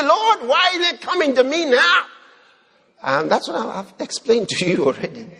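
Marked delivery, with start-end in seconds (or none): 0.0-2.1 higher, wide-eyed plea to the Lord; mock surprised prayer. Preacher mocking a believer's prayer, mock surprised plea. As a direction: play the startled believer asking why now.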